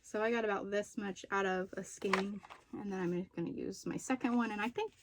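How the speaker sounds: short of breath while talking; breathless, catching air between phrases. Real, not acted. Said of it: "Sorry, I'm getting a little out of breath".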